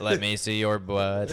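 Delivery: stiff synthetic robot voice. Pretend. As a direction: talk like a clunky sex robot. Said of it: "Thomas, do the robot voice".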